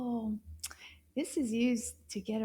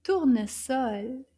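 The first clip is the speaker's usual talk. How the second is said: Tournesol a bit quicker, still careful; a little faster; 4 dB louder, slower than usual. Shown as a demonstration. Teacher repeating together with children, Tournesol a little bit faster. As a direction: speed Tournesol up slightly. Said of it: "a little bit faster".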